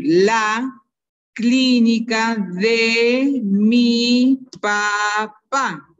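"clínica de mi papá" stretched out very slowly; teacher dictating at a crawl; slow dictation. Shown as a demonstration. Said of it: "vuelvo a repetir".

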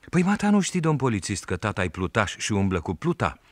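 put-on a village boy sassing the policeman; boy Sandu answering the policeman, high and cheeky. A narrator's reading. Narrator voices the boy Sandu.

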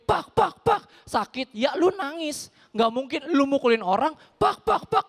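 lightly hammed pain cries; mock pained cries. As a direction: act out getting beaten. Imitating being hit, crying.

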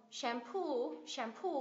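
"shampoo" as sham-POO, last syllable held; teacher's model of "shampoo", weight on POO; stress on final syllable. Shown as a demonstration. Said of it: "nhấn vào ngay cái âm tiết đấy".

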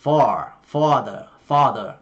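American "father", rounder vowel and r-coloured ending; American "far, father"; American accent. Shown as a demonstration. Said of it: "Giọng Mỹ thì là".

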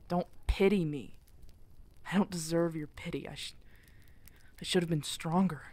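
self-reproach. Acted. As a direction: push the pity away, hard on yourself. Refuses pity, self-blame.

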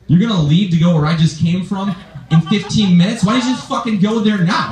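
rising, incredulous protest; mock indignant outburst. Boyfriend protesting girlfriend's early exit, mock indignant. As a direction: let the pitch climb into exasperation.

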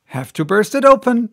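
determined. Acted. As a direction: declare it forcefully. Narrator determined exclamation.

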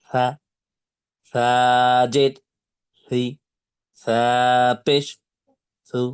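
সা, সি, সু read slowly and cleanly, no drawn vowel; slow teacher's demonstration; slow model reading. Shown as a demonstration. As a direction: model each syllable for the class. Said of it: "তাহলে কিভাবে পড়বেন".

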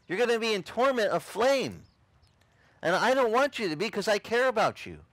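high, insistent retold plea; impassioned warning. Convert warns friend of torment, impassioned warning.

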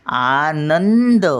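"आनंद." very slow, with the nasal in "नं" held long; अनुस्वार उचलून. Shown as a demonstration. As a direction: swell on "नं" in "आनंद." and hold it. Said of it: "मग कोणावर टिंब येणार". ("आनंद." मधला नं लांबवून)

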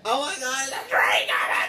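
sudden loud panicked yell; scared shout. Real, not acted. Driver spotting a train coming, frightened shout. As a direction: yell in real alarm. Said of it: "I got scared".

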